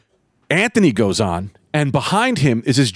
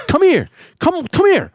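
high, insistent mock call; acted confrontational beckoning; retold angry summons; 3 dB louder than usual. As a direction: call him over for a fight. Retells calling heckler over angrily.

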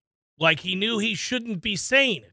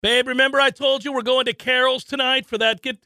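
lightly voiced wife; 5 semitones higher than usual. Acted wife reminding husband.

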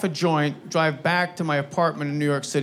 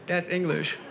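Charlie Murphy; 7 dB quieter than usual. Retold or imitated. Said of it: "Charlie Murphy goes".

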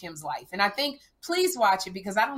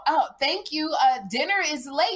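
sarcastic mom; 5 semitones higher than usual. Retold or imitated. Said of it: "I go".

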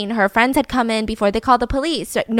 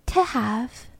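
lowercase reply; 7 dB quieter than usual. Retold or imitated. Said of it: "speaking in lowercase".

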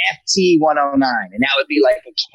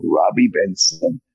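Marty Powers voice; 4 semitones lower than usual. Pretend. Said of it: "I'm trying to do it here".

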